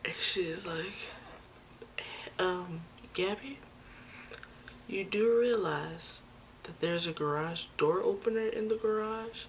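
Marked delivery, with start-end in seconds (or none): 2.4-9.5 pointed disbelief. Retold or imitated. Mom points out the obvious.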